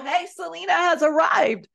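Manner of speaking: loud, high, bubbly call to the room; loud bubbly announcement. Retold or imitated. Sister entering the room, loud bubbly announcement. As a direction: announce her arrival loudly. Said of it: "she had that loud, bubbly personality".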